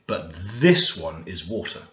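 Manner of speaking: "this" leaned on with a rise; stress on this. Shown as a demonstration. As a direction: press "this" to mark the contrast. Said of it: "It's like a hard emphasis".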